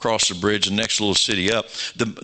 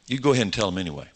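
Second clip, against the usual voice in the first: quick urging; much faster than usual. Shown as a demonstration. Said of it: "I said".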